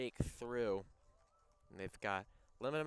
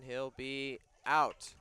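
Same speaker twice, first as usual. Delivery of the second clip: excited play-by-play; 5 dB louder, slower than usual. Acted. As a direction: call the close play with rising excitement. Play-by-play close call.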